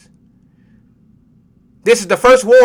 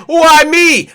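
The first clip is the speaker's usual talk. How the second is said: mock whine; 7 semitones higher, 5 dB louder than usual. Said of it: "you wanna cry and ask".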